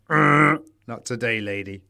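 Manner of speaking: a lightly voiced comedian's put-down; Bill Hicks bit. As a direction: stretch it out like a deadpan punchline. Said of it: "That's the Bill Hicks thing".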